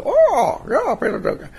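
high, delighted call of recognition; excited greeting. Retold or imitated. Crowd greeting the performer, excited recognition. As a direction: greet him like a star.

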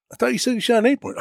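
mock incredulous hunting buddy; disbelief. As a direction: retell the moment you realised it had no horns. Finding doe, not buck.

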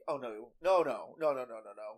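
imitating a sassy string of refusals. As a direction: play at sassy protest. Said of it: "she's got this, like, sassy".

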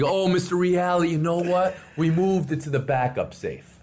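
high, overly sweet excuse; smooth over the mistake brightly; sheepish clerk. Retold or imitated.

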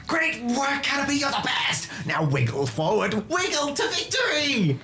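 put-on high shouted cheers of a young trainer; excited kid cheering. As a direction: cheer your bug on to victory.

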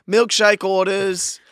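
high, loud, drawn-out vendor call; imitating an eager kid taking orders. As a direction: sing it out to the whole family. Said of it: "I just remember being like".

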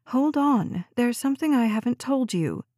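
sister whining to keep her on the line. Acted. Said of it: "Meg was whining now, her voice rising in pitch".

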